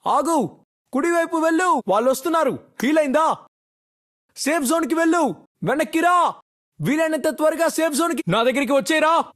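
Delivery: projected, urgent in-game commands; urgent callouts. Acted. Player directing squad to the safe zone, urgent calling out. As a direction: call out orders to the squad.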